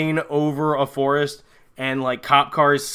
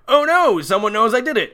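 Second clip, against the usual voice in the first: mock panic; 7 semitones higher, 3 dB louder than usual. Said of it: "Brian looks around like".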